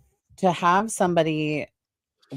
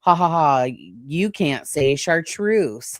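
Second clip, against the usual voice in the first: mocking laugh; slower than usual. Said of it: "like, that ha".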